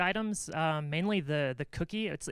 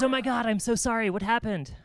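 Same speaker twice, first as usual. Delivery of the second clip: a mock-shocked collector, higher and louder; shocked gasp; 6 semitones higher, 6 dB louder than usual. Collector reacting to the news with mock shock. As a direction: gasp it out like a horrified caller.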